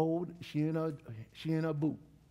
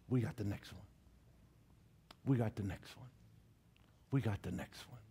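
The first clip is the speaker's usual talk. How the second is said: low, soft muttered self-encouragement; quiet self-talk; 7 semitones lower, 7 dB quieter than usual. Retold or imitated. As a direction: talk yourself up under your breath. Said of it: "I just kept talking to myself".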